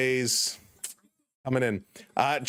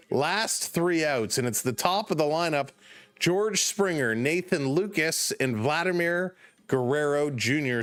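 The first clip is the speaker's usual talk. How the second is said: live baseball play-by-play, lifted a touch; play-by-play call. Acted. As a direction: call it like a ballgame broadcaster. Calls the game play-by-play.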